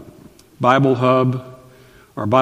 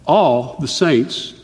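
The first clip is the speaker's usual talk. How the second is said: all stretched very slowly; slow insistent all the saints; emphatic all; much slower than usual. Shown as a demonstration. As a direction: lean on all, drawn out. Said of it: "emphatic, not some".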